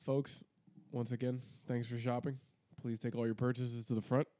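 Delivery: store announcer. Pretend. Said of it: "You're getting way too into it now".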